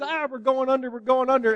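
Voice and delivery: high, mildly panicked cry; mock panic. Disciples waking Jesus in the storm, mock panic.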